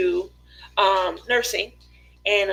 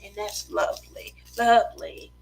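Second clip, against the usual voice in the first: soft murmuring TV painter; gentle soothing painting instructor; Bob Ross impression; 9 dB quieter than usual. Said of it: "Why does he sound like a masseuse?".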